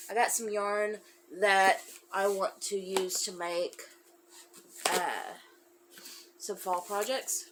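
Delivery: stuffy, congested nose; talking through a blocked nose. Real, not acted. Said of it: "I'm sorry, I'm all congested".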